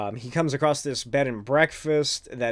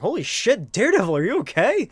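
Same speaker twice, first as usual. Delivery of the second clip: higher, quick mock concern; alarmed helper; 8 semitones higher, 5 dB louder, faster than usual. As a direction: rush out the worry, pitched up. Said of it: "they're like".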